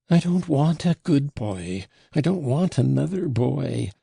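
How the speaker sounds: high, intense, voiced outburst; wild mutter. A narrator's reading. Frenzied father refusing any replacement son, wildly distraught. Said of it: "he muttered in a wild whisper".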